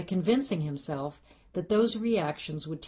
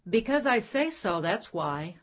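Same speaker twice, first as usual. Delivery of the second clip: stern parent retort; 4 semitones higher than usual. Acted. Parent's stock retort quoted.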